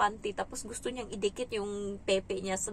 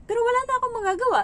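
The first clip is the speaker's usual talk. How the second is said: pitched way up and rushed, shrugging it off; high fast resigned line; 13 semitones higher, 9 dB louder, much faster than usual. Acted. Acting out her shrug after breaking something, high and fast. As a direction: rattle it off high as if nothing can be done.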